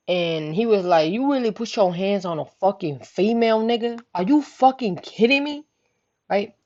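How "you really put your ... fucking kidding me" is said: retold outrage, rising in pitch; acted-out angry friend; indignant confrontation. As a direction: build to an incredulous challenge. Friend threatens boyfriend, acted.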